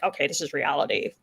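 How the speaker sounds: low, quick, deadpan aside; imitated matter-of-fact tone. Mimicking an author breaking with fantasy legend, matter-of-fact. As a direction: drop the pitch and say it fast. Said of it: "in that tone of voice too".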